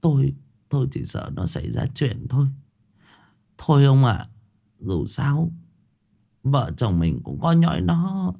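mother near tears over her son; teary. Acted. Mother, eyes welling, worries to her husband, teary. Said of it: "Bà Bộc rơm rớm nước mắt".

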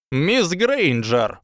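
high, slow squeaky call; squeaky Flitwick. A narrator's reading. Professor Flitwick calls after Hermione, squeaky. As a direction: squeak out her name. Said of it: "пропищал профессор Флитвик".

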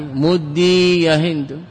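very slow, each syllable drawn out; slow demo. Shown as a demonstration. Grammar teacher demonstrates the command, very slowly. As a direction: draw out مدي يا هند slowly for students. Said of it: "افعلي".

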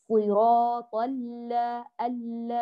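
slow recitation, one L completing the other in ال-; continuous double L, no break in ال-; lams merged. Shown as a demonstration. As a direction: hold the L of ال- and glide into la. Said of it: "يكمل بعضهما صوت بعض".

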